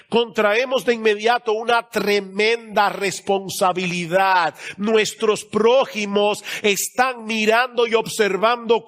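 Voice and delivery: slow, weighty sermon delivery; emphatic preaching. Real, not acted. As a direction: press each word home to the congregation.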